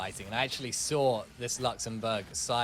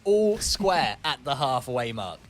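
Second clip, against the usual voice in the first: loud, slow announcement; excited score call; 2 semitones higher, 7 dB louder, slower than usual. Real, not acted. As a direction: boom out the level score.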